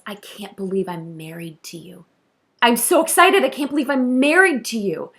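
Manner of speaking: a newlywed overwhelmed with joy; excited disbelief. Retold or imitated. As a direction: groom to his bride, gushing and amazed. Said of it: "he grabs her face and he goes".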